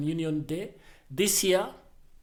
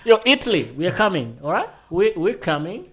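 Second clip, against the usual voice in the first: loud, playful shout-out; calling out; 3 semitones higher, 10 dB louder than usual. Pretend. Host announcing the tour to Italy, playful loud call. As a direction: holler it as if to a faraway crowd.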